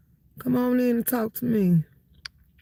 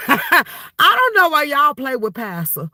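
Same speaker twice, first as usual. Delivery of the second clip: laughing; 5 semitones higher than usual. Real, not acted. Laughing repeat.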